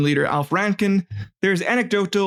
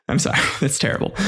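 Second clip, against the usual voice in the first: laughing; much faster than usual. Real, not acted. Laughing at own joke.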